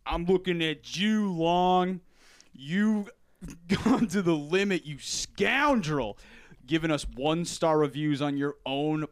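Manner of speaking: loud Randy Savage wrestling promo; booming wrestler boasts. Acted. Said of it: "sound like Randy Savage".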